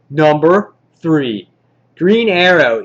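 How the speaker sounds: loud, slow drawn-out ranking reveal; countdown announcer. Pretend. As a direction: announce the entry with punch.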